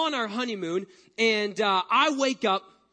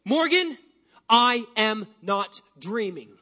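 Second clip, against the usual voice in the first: slow, firm insistence; dead serious; 4 dB louder, slower than usual. Retold or imitated. Sleepwalking husband to wife, slow and firm. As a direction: stare her down and insist. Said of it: "I look her dead in the eyes and I say".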